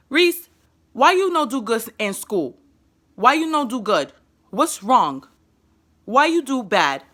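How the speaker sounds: put-on broken baby-simple English, each question set apart; simple child talk. Shown as a demonstration. Mother scolding her autistic son in simple words. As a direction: talk down to a small child's level. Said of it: "I talk to him like that".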